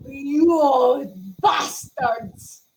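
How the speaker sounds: slow furious shout at the hidden voice; mock-furious yell; angry shout. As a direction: drag it out in rage. Character angry at unseen voice.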